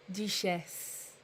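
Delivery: Duchesse with French vowels, ending falling; French accent. Shown as a demonstration. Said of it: "I say it with the French accent".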